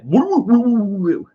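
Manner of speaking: high, rushed nonsense syllables spilling out; mocking fast rambling. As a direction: mimic a nervous guy gabbling too fast. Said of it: "he sounds like".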